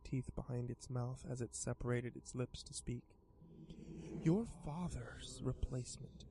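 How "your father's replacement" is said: sly creature voice. Acted. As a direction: tease like a grinning demon. Pastel creature speaks.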